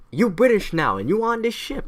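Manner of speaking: high, bossy mock order; British sailor. British sailor pressing an American into service, high and bossy. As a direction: claim them, pitch climbing to the end. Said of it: "the British sailors like".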